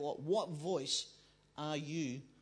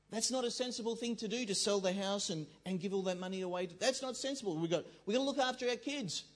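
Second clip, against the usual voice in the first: protesting; 3 semitones higher than usual. Pretend. Preacher voicing objection to selling the house, mildly hammed-up protest. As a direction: argue back as the sensible inner voice.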